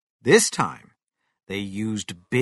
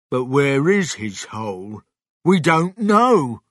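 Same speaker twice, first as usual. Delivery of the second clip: raised, louder protest at the end; puzzled farmer; 3 semitones higher, 6 dB louder than usual. Acted. Bunce objects to the plan.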